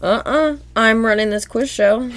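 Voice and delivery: high-pitched cartoon quiz host; mock quizmaster. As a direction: lightly voice a bossy cartoon interrogator. SpongeBob as stern quizmaster.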